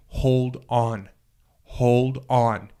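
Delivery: a lightly voiced heavenly voice calling him back; beautiful voice. Heavenly voice urging a dying teen to hold on, lightly voiced and gentle. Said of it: "It was beautiful".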